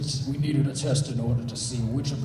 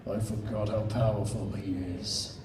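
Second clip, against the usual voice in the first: softer and lower, a hushed aside; whispered; 6 semitones lower, 7 dB quieter than usual. Acted. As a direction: murmur it under strain. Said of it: "Mew whispered".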